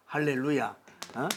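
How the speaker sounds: ordinary delivery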